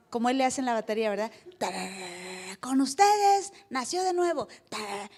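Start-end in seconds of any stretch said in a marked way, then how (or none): 1.6-5.1 mock drum roll then announcer fanfare; announcer parody. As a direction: hype it like a show host. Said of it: "drum roll". (parodia de presentador con redoble)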